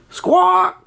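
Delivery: very high parrot squawk; piercingly high bird call; parrot cry. A narrator's reading. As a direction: cry out like a startled storybook bird. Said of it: "cries the parrot".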